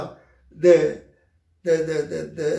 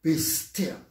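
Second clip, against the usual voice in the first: commanding Jesus; slower than usual. Retold or imitated. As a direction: still the sea with one command. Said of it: "and said".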